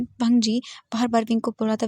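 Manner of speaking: usual speaking voice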